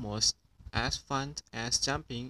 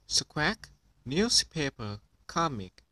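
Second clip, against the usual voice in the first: parrot squawk; 3 semitones higher than usual. Acted. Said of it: "Polly Parrot copied".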